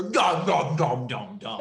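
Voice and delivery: mock monster chomping sounds; lightly voiced Cookie Monster munching.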